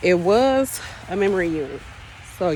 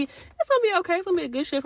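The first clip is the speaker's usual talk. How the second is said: positive nurse; 8 semitones higher, 4 dB quieter, much faster than usual. Retold or imitated. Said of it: "positive nurse B".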